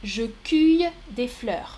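cueille said as "kuy", u vowel; first option. Shown as a demonstration. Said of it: "Trois propositions".

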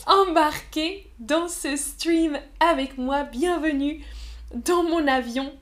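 playful cabin crew welcome; flight attendant voice. Acted. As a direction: hostess welcoming passengers aboard.

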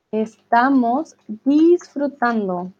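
Estamos disfrutando drawn out slowly; emphatic dictation. Shown as a demonstration. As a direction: stretch Estamos disfrutando out, word by word. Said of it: "la persona está haciendo énfasis". (Estamos disfrutando, lento y marcado)

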